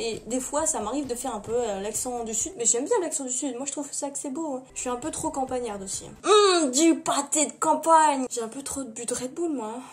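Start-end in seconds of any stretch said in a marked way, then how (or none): 6.3-8.3 savouring. Pretend. Savouring the thought of pâté.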